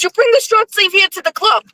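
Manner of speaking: very high, insistent imitation; imitating Blackie. Blackie ordering signs to the club, high imitation. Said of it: "He goes".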